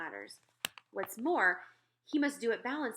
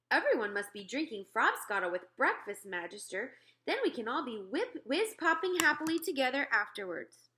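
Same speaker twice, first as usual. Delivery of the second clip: eager giant, louder and higher at the end; cheerful giant proposing fun; the BFG; 4 semitones higher, 4 dB louder than usual. Acted. Narrator voices the BFG.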